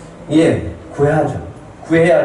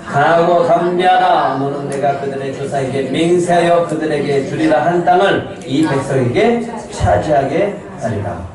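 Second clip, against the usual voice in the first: reading aloud together; 3 semitones higher than usual. Real, not acted. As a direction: lead the congregation through the verse. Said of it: "같이 읽겠습니다".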